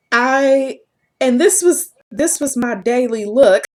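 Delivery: talking through a rising laugh; real amusement. Real, not acted. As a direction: let real laughter creep into the words. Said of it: "I have to laugh".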